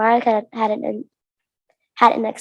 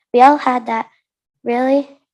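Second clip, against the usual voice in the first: scolding; 5 dB louder than usual. Acted. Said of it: "Amara scolded".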